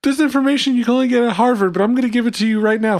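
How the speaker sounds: infomercial voice. Pretend. Infomercial pitch.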